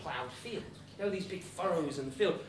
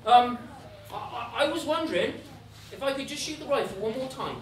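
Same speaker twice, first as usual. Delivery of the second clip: acted nervous stalling; 3 semitones higher, 6 dB louder than usual. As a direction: stumble into a timid plea. Hans stalls nervously before the devil.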